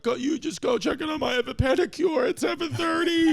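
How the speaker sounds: high mock voice of a careless wife; lightly mocking high imitation; mimicking high whiny voice. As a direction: pitch it way up, breezy and unbothered. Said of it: "She's like".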